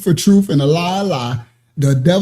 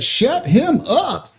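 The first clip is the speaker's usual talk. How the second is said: imitating Nancy; much slower than usual. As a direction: drag each word out, lightly mocking her. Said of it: "She just said".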